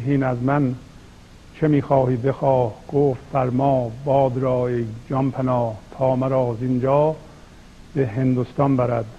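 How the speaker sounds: emphatic, measured verse delivery; poetry recitation. Acted. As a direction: recite the couplets with weighted phrase openings. Recites whole verse passage. (شعرخوانی شمرده و باتأکید)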